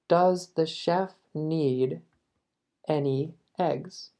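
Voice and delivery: slow, careful English question; slow model question. Shown as a demonstration. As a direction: ask it slowly for learners. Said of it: "vamos a decir". (pregunta modelo, lenta)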